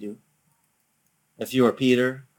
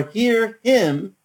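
loud, raised-pitch command; voice over a loudspeaker; 8 semitones higher, 6 dB louder than usual. Retold or imitated. God's voice from heaven to the disciples, loud command. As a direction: ring it out as a heavenly order. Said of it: "over the loudspeaker said".

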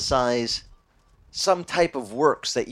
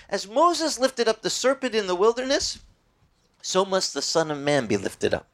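lifted, higher scripture quote; quoting Jesus; 5 semitones higher than usual. Retold or imitated. Preacher quoting Jesus to the congregation, lifted higher. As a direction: raise the voice for the words of Jesus. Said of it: "Jesus said".

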